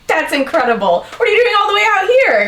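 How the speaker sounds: lightly voiced curious Nicholas. Nicholas delighted to meet bartender.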